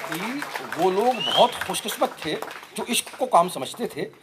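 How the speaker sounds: measured mushaira-style recitation; poetry recital. Acted. Poet reciting Faiz to an audience, poetry recital. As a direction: recite the verse line by line, with pauses.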